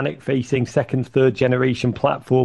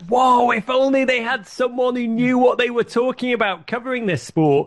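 exasperated outburst; 9 semitones higher than usual. Retold or imitated. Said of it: "I screamed at the television".

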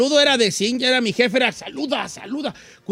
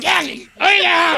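put-on slurred drunk voice; town drunk; 5 semitones higher than usual. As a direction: slur it like a drunk. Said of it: "¿Por qué habla como borracho?".

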